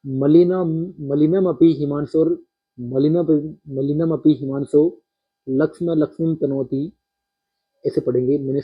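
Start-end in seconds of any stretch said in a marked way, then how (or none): 0.1-6.9 measured verse recitation with a break after "हिमांशो"; verse caesura reading. Shown as a demonstration. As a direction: recite in two parts, pausing after "हिमांशो" before "लक्ष्म लक्ष्मीम तनोति". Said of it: "इसको अपन पढ़ते time ऐसे ही पढ़ेंगे".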